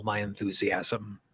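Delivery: measured lead-and-repeat delivery with long pauses; guided tapping affirmations. Shown as a demonstration. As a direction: say each affirmation phrase by phrase, leaving room to repeat.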